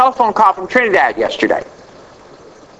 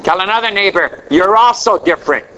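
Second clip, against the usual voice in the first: short declarations pitched up for the congregation to echo; preaching call-and-response; 4 semitones higher than usual. Real, not acted. Preacher to congregation repeating after him, rousing call-and-response. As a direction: lead the church, phrase by phrase.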